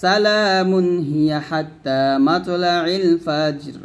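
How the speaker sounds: very slow melodic chant in one flowing line; Quran recitation. Shown as a demonstration. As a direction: intone it like tilawat, unhurried. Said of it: "এই দুটো মিলাবো". (ধীর সুরেলা কোরআন তেলাওয়াত)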